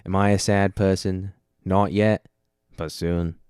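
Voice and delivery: lightly done presidential Boston accent; JFK impression. Shown as a demonstration. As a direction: try a light Kennedy-style Boston accent. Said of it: "That's like a J F K".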